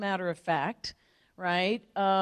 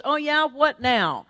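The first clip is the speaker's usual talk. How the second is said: loud, raised-pitch retort; skeptical mother; 6 semitones higher, 7 dB louder, slower than usual. Retold or imitated. Mother answering daughter's big promises, skeptical. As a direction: challenge her as a doubting mom.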